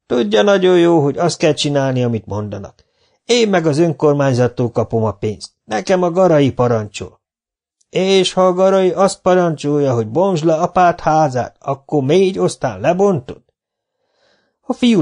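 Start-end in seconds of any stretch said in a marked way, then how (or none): 0.1-7.2 raised, defensive worker's retort; sully young worker. Acted. Young worker answering the teacher, defensive and raised. 7.9-13.4 high, pointed rhetorical question; challenging old teacher. Acted. Old teacher challenging the young worker, high and pointed.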